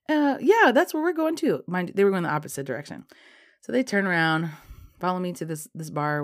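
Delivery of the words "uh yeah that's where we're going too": mock eager guy. British guy pretends same destination.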